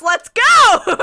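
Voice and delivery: loud, high yell breaking into a shriek; frustrated shout. Real, not acted. Player stuck at the last step, frustrated shouting. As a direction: explode at the stuck game.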